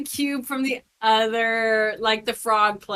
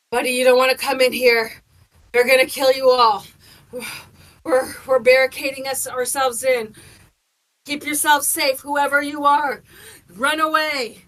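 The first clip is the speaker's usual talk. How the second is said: urgent warning; 3 semitones higher, 6 dB louder than usual. Acted. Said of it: "and be like".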